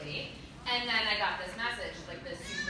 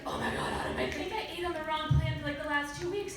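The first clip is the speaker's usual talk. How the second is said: higher-pitched acted panic; retold freak-out; 6 semitones higher than usual. Client confessing a diet mistake to Autumn, mock panic. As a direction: replay a worried confession to the coach. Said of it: "One day I was freaking out".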